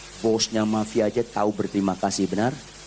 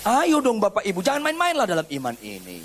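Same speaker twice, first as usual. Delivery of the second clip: urging call; 8 semitones higher than usual. Real, not acted. Urging congregation.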